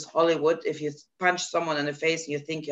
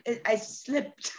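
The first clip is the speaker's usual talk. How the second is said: sheepish lie; 4 semitones higher, 8 dB quieter, slower than usual. Retold or imitated. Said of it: "I'm like".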